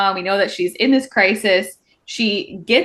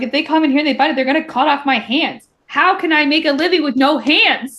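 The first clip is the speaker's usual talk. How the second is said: higher, exaggerated indignant fretting; mock panic; 5 semitones higher than usual. Elroy fearing for his hands, mock indignant. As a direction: protest in hammed-up alarm.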